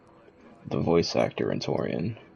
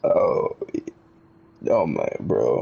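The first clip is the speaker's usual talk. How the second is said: crying laughing; 7 semitones lower, 5 dB louder, much slower than usual. Real, not acted. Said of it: "I'm actually crying tears right now".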